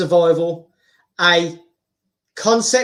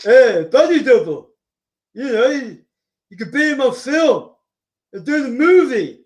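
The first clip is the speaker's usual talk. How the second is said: Stallone impression; 2 semitones higher than usual. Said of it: "Sly Stallone having a conversation".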